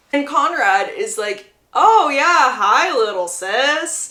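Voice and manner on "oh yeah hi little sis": thick sarcasm, drawn out very slowly. Recounting a scene where a brother greets his returned little sister; imitating a very sarcastic tone. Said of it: "saying it in a very sarcastic tone".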